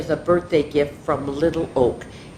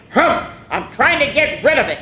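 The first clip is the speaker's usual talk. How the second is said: huffy sniff; 5 semitones higher than usual. Acted. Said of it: "she sniffed".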